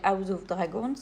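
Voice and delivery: English title with a French accent. Real, not acted. Colouring vlogger names a series to viewers, French-accented English. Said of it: "Désolée pour mon accent anglais".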